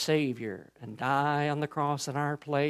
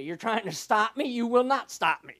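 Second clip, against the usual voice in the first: defiant, slightly raised voice; acted defiance, mildly intensified; raised volume; 5 semitones higher, 4 dB louder than usual. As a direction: build toward a louder, insistent retort. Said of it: "he just raise up the volume".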